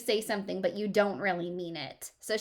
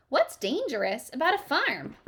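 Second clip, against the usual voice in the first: puzzled dad; 6 semitones higher, 5 dB louder than usual. Acted. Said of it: "Daddy looked surprised at me".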